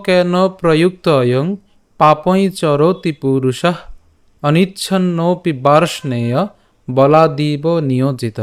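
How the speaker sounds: slow, measured Sanskrit verse reading; verse recitation. Shown as a demonstration. Teacher presents today's shloka to learners, measured recitation. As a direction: recite the shloka slowly, drawing out long vowels. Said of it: "আজকে শ্লোকটি হল".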